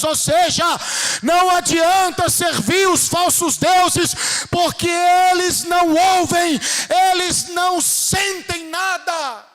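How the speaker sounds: loud, high, slow proclamation; full-force preaching. Real, not acted. Preacher warning the congregation against serving false gods, full-force preaching. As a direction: hammer out each phrase, drawn out.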